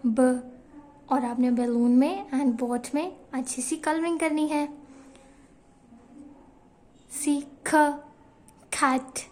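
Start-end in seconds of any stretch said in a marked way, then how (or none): 0.1-0.4 a lone short ब, "buh"; letter sound of B. Shown as a demonstration. Teacher showing the B sound in balloon, short isolated ब. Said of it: "इसमें भी बी की sound आ रही है". 7.7-7.7 ख as a short aspirated "kuh"; letter sound of C. Shown as a demonstration. Teacher giving nursery class the sound of C, short puffed ख. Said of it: "सी की sound आ रही है".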